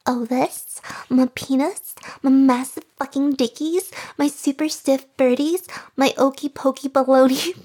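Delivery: hammed-up macho brag for laughs; mock bravado. Reading the male version to chat, goofy boast. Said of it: "I'll just have to pretend".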